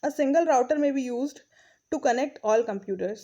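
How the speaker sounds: reading the English text aloud, very slowly; slow textbook reading. Acted. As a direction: read each phrase out deliberately for the class. Reads textbook line slowly. (धीमी गति से पाठ पढ़ना)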